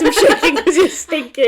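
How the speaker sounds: talking through giggles; laughing. Real, not acted. Teasing co-host about being stinky, laughing. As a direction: barely hold the laugh in. Cracking up over the Stinky story.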